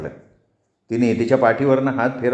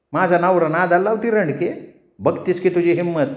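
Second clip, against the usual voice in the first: higher, sharp accusing village voice; threatening rival woman; 6 semitones higher than usual. Acted. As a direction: menace her with a knife at her belly. Champa holds knife to Rani.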